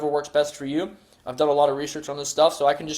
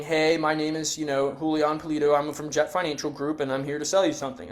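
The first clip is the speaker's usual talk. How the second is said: flat scripted telemarketer read; robotic telemarketer; 4 dB quieter than usual. Shown as a demonstration. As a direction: recite it like a robot. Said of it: "You sound like a robot".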